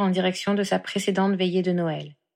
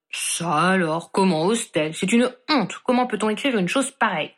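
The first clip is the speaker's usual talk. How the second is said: grumbling. Acted. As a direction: mutter in outrage at the paper. (grommellement indigné, plutôt retenu)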